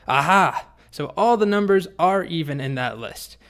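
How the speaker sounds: loud, triumphant "aha" and conclusion. Acted. Boy springs his clever conclusion on the dragon, triumphant. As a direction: burst out as if you've just won the argument. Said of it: "Martin triumphantly says".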